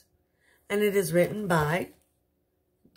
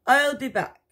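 lightly voiced fairy godmother; 9 semitones higher, 6 dB louder than usual. Fairy departs.

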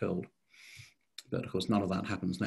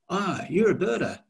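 higher-pitched Australian exclamation; Australian accent; 10 semitones higher, 3 dB louder than usual. Retold or imitated. Warden rushing up to a visitor, imitated Australian accent. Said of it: "this is an Australian accent".

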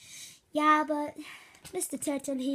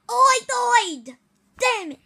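loud, slow, high outcry; frustrated yell; 9 semitones higher, 11 dB louder, slower than usual. Pretend. Gamer kid yelling after dying in game. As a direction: wail it in frustration.

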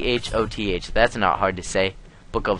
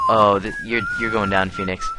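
squeaky taunt. Pretend. Taunting opponent.

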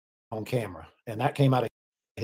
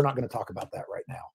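hushed aside; whispering; 3 semitones lower, 10 dB quieter, faster than usual. Retold or imitated. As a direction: whisper it off the record. Quoting a handler shutting questions.

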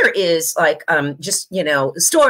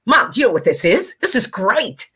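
excited son; 4 semitones higher than usual. Retold or imitated. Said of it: "he'll go".

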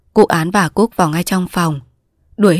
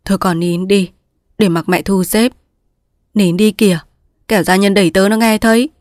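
coaxing. Acted. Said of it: "dỗ dành".

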